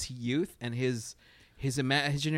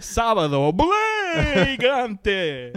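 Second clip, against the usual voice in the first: Latino Dracula voice; 8 semitones higher, 6 dB louder, much slower than usual. Pretend. Telemundo Dracula show parody.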